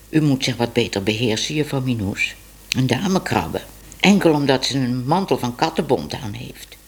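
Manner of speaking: a hint of a stern young man; lightly scolding man. Tibbe voiced lower, scolding.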